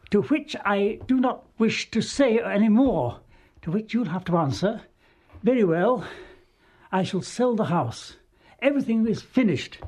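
mildly hammed-up stage declaiming; stage melodrama. Actress feeding improvised lines on stage, mock-dramatic declaiming. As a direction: play it like an old touring melodrama actress.

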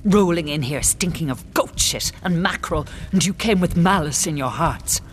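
heated, forceful tirade; giving vent. Acted. Queen berates invaders who came as guests, giving vent. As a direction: let the rage pour out in bursts. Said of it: "as she gives vent".

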